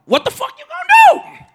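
very high, squealed challenge; high goading question. Retold or imitated. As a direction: imitate a friend egging him on. Retells Les's reaction.

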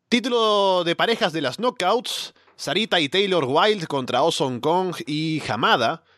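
play-by-play recap read; wrestling commentator. Acted. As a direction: call the match like a wrestling announcer. Recap of the match result.

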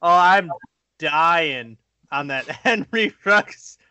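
laughing while talking; cracking up mid-sentence. Real, not acted. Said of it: "I'm still laughing over here".

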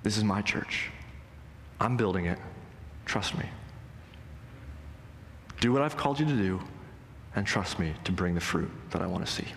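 gentle, unhurried correction with short pauses; low-key, calm firmness; kindly yet firm. Retold or imitated. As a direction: reassure them kindly but leave no room for argument. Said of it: "very kindly yet firmly says".

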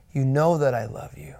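hushed and hurt, barely voiced; grieved, breathy confession to his master; grieved whisper. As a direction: whisper it like a wounded friend. Grieved Peter answers Jesus.

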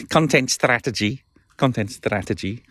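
a hint of a Scouse accent; half-hearted Scouse attempt. Shown as a demonstration. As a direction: have a tentative go at Scouse. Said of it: "I can't do a, a Scouse accent".

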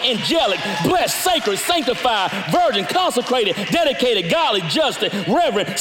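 rhythmic, punchy list of praises; preaching list. Acted. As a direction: fire off each attribute like a drumbeat. Rapid list of God's attributes.

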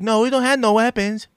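a quick, lightly put-on Hispanic accent; half-hearted Hispanic accent for a street guy; weird Hispanic accent. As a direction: toss off a mock Hispanic accent. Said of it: "I gave him a weird Hispanic accent".

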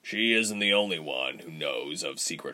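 low, soft, muffled through a door; a voice heard muffled from behind a door. Acted. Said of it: "a muffled voice said".

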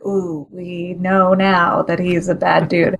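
slow, lightly menacing imitation; mock evil emphasis. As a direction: draw it out with a hint of mock evil. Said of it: "putting emphasis, like, evil, like, making the word sound like".

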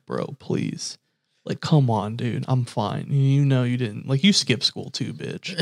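hushed, begging brother so mom won't hear; pleading under the breath. Retold or imitated. Begging brother over phone, secretly.

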